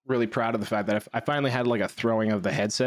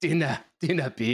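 put-on Scottish accent. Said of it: "my accent".

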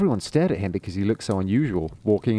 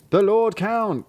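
woodcutters answering; 10 semitones higher, 3 dB louder, slower than usual. Acted.

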